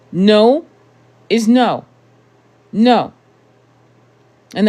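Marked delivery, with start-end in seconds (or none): 0.1-3.1 louder and higher, each no hammered down; emphatic loud no. Real, not acted. Telling her viewers flatly that no means no. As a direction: slam the door on it, no room for argument.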